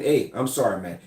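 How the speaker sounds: non-threatening apology. Shown as a demonstration. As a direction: back down gently, hands up. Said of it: "Just sometimes just saying".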